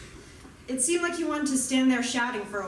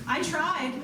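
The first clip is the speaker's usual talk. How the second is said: called out; 6 semitones higher than usual. Retold or imitated. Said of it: "I called to him".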